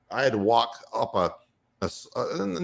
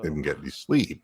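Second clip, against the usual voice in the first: sheepish apology; 10 semitones lower, 5 dB quieter than usual. Retold or imitated. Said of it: "And it's like".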